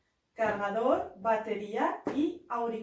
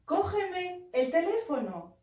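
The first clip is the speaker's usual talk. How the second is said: slow demo; 5 semitones higher, slower than usual. Shown as a demonstration. Teacher demonstrates a Spanish phrase.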